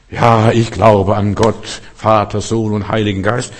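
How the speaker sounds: lightly mimicked slow, measured recitation of the creed; creed reciter. Preacher mimicking a believer's creed to the congregation, slow recitation. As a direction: recite it slowly, like a believer by rote.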